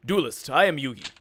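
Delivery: attempted anime hero voice, firm; Dan Green. Prince introducing himself to the duelist, heroic dub-actor imitation. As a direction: introduce yourself as a grand duelling hero. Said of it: "I am channeling my best Dan Green".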